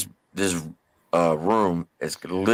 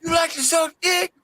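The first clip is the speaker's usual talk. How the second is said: much higher, mocking threat rising to a yelp; menacing taunt. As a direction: lean in and taunt him. Inmate finally threatens private.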